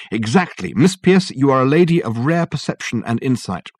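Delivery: delighted she got it; excited praise. Acted. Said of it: "said Dirk excitedly".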